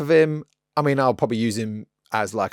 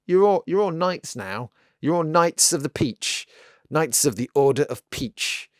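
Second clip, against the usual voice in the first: slow, raised, grand knighting decree; mock royal proclamation; 6 semitones higher, 3 dB louder, slower than usual. Hobbyist knighting his patrons, in a slow hammed-up proclamation. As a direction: dub the patrons knights with lordly pomp.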